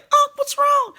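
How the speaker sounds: put-on very high, loud kid voice; concerned nephew. Nephew asking his hurt uncle, very high kid voice. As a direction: squeak it like a worried little boy. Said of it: "My other nephew was like".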